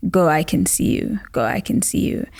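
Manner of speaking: a voice calling from far off, growing faint; lightly voiced distant call, fading to a murmur. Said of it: "you can still hear the voice".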